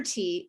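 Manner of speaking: "T" as the bare sound "tuh"; a short puffed "T" sound, not the letter name. Shown as a demonstration. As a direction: demonstrate "T" as an isolated consonant. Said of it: "makes the sound T".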